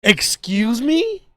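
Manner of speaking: "Excuse me?" stretched very slow with a rising tune; drawn-out offended excuse me. Retold or imitated. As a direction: drag out "Excuse me?" like she can't believe it. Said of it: "this was the face she made".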